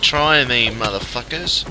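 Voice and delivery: high, slow angry snarl; furious threat. Real, not acted. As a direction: threaten them with fury. Furious at attacking mobs.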